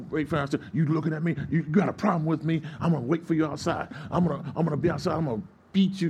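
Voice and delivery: acted threat. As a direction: imitate an angry man picking a fight. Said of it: "threatened to beat him down".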